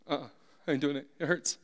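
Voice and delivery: soft, sulky whimper; whiny refusal. Retold or imitated. Husband refusing his wife's bath, sulky and soft. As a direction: dig in like a stubborn child.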